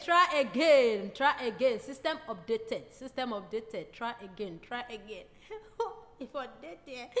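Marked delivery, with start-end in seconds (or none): 0.0-5.2 robot voice. Acted. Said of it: "He dey speak like the robot itself".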